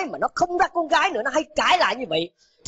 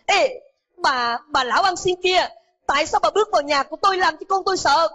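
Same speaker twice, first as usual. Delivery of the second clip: furious shout; 7 semitones higher than usual. A narrator's reading. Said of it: "hét lên". (con trai quát đuổi mẹ mình đầy giận dữ)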